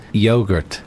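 American "Yogurt." with yo as in go; scene: actor teaching host the American way, saying "Yogurt." with a long yo. Shown as a demonstration. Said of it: "You say yogurt".

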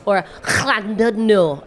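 Llandudno said slowly, syllable by syllable; pronunciation. Shown as a demonstration. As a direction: draw out Llandudno, Welsh LL. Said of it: "pronouncing place names".

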